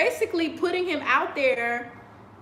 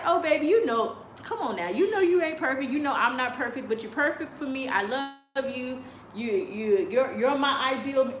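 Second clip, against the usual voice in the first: tender to husband. Pretend. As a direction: coax him gently, baby-voiced but only lightly. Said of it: "I would be like".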